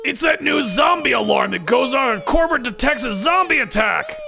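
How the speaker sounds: high, urgent shouted explanation; shouting over alarm. Acted. Ed explains the zombie alarm to coworkers, shouting over it. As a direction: raise the pitch to get over the siren.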